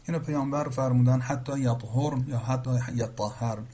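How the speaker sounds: یطهرن first as yathurna then as yattahharna; یطهرن را به دو صورت بخوانید; two readings contrasted. Shown as a demonstration. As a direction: say یطهرن both ways, one after the other.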